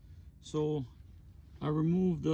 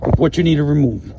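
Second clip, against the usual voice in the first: talking from under the car, projecting up; lying under a car. Real, not acted. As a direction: speak up while lying on your back under a car. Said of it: "Look, I'm under the car".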